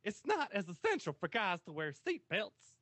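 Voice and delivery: put-on light Southern accent with some sass; sassy southerner accent. Reading out a seat belt myth, sassy Southern accent. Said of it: "This is his sassy southerner accent".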